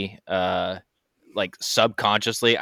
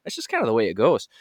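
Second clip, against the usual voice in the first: lightly put-on Canadian accent; a hint of hammed-up Canadian accent. Shown as a demonstration. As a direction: chat with a playful Canadian lilt. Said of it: "I'm doing a Canadian accent".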